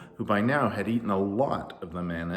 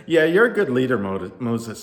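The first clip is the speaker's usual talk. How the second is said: loud praise; 3 semitones higher, 8 dB louder than usual. Acted. Laughing crowd praise.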